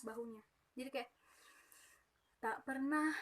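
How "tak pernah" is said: squeezed, choked sung fragment; strained throat. Shown as a demonstration. Teacher showing a strained throat from shoulder breathing. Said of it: "ngegendok suaranya".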